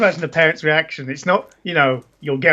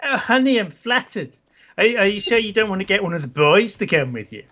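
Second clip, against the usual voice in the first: put-on female accent, higher opening; Isabella; 3 semitones higher than usual. Isabella answers a trip invitation, put-on accent. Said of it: "this is the best accent ever".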